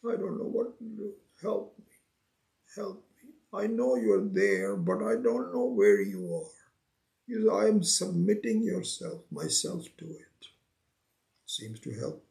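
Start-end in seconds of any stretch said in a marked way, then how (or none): 0.0-10.5 mock desperate plea. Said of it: "You start crying and say".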